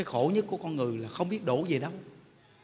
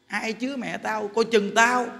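insolent threat; 3 semitones higher, slower than usual. Retold or imitated. Gangster child warning the temple, retold insolent threat. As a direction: imitate a tough menacing warning. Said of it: "nó hỗn đến ghê thiệt".

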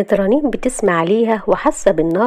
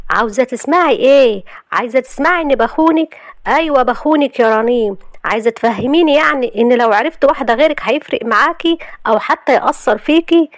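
raised pitch, heated confession; angry; 6 semitones higher than usual. Acted. Husband wresting knife from wife, angry. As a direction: throw the admission in her face. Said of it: "وقال لها بغضب".

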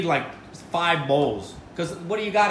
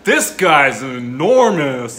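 amazed; 9 dB louder, much slower than usual. Real, not acted. Marvelling at tall guy.

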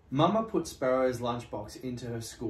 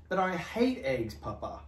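groaning complaint; 4 semitones higher than usual. Acted. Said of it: "groaned Snake".

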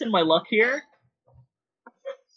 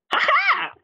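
very high hammed-up triumphant cackle; mock cackle. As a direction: cackle like a cartoon villain, way up high. Mock triumph after voice joke.

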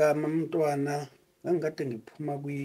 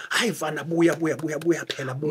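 ecstatic praise shouting; 2 semitones higher than usual. Retold or imitated. Caller praising him on the phone.

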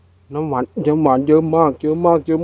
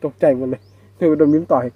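ordinary talk, nothing marked

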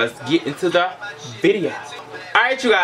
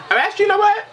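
excited; 3 dB louder, much faster than usual. Real, not acted. Sudden excited idea.

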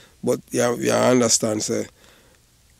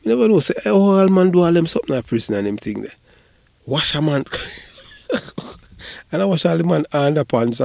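loud and high, amazed; excited; 7 semitones higher, 3 dB louder than usual. Real, not acted. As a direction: exclaim it with glee. Excited retelling with laughter.

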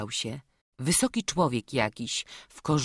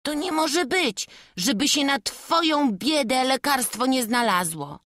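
eager outcry; 10 semitones higher, 4 dB louder than usual. Acted. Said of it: "zawołał Wawrzuś".

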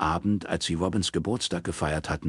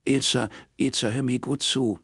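higher-pitched, insistent plea; firm urging, voice lifted; urgent appeal; 7 semitones higher than usual. A narrator's reading. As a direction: get a crying friend to listen. Robin urges crying friend to listen.

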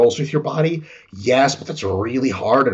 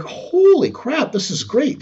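much higher, slow and drawn out at first; mock awestruck, pitched way up; amazed delight; 9 semitones higher, slower than usual. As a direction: act stunned by how good it feels. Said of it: "And you're like".

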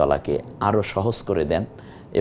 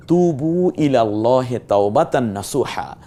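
Quranic recitation; 2 semitones higher than usual. Shown as a demonstration. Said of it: "আল্লাহ তাআলা বলছেন".

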